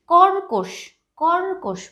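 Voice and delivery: teacher sounds out কর্কশ, stressing the r before ক; careful teaching demo. Shown as a demonstration. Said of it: "কয়ের আগেও কিন্তু একটা র এর উচ্চারণ আসছে".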